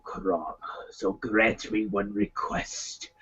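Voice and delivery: a touch of barbarian king praying to his god; Conan prayer speech. Acted. Warrior praying to his god for revenge, solemn and low. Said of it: "I did that one where".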